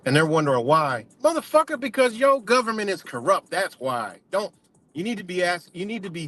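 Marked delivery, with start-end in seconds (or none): 1.2-3.5 bursts out high on the curse, then drives the point home; angry outburst. Real, not acted. Viewer hears him blow up about a corrupt government, angry outburst. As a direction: rant at the government, pitched up on the curse.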